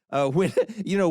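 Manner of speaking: a real chuckle breaking in; short laugh mid-sentence. Real, not acted. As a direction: laugh through the words. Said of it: "I'm laughing now".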